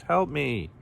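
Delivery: high-pitched storybook cry for help; screeched. A narrator's reading. Kangaroo begs to be let out, screeched. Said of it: "he screeched".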